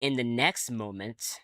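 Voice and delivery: measured, lightly dramatic game narration; story narration. Acted. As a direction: tell it like an unfolding strange dream. Reads game narration aloud.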